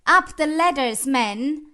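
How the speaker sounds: high, loud rallying order; shouted command. Acted. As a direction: call the crew up the ladders.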